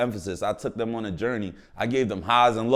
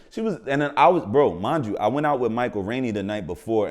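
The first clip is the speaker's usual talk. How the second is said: normal talking voice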